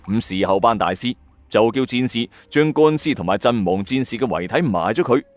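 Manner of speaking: ordinary delivery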